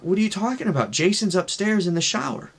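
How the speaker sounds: lightly voiced puzzled mom; baffled mom. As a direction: set the child straight in acted disbelief. Mom baffled, corrects the child.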